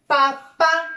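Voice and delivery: papa split in two, weight on the final PÁ; papa sounded out as pa-PÁ; stress on last syllable. Shown as a demonstration. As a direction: lean on the second syllable of papa, as papá. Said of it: "en la última sílaba".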